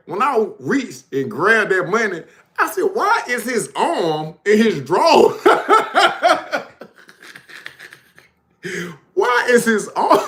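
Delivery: high-pitched, loud, breaking into laughter; laughing. Real, not acted. Telling friends the story, cracking up laughing. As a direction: laugh through the words, barely getting them out.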